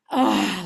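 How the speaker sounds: loud, weary "ugh"; heavy groan. Retold or imitated. Speaker recalls dread before her circle, heavy groan. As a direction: groan under a heaviness, acted out. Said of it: "like that heaviness".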